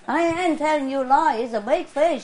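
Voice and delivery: hammed-up folksy angler's boast; neighbor impression. Neighbor swearing to a fishing story, folksy impression. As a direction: playfully mimic an insistent neighbor. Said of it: "I talk like the people, the neighbors".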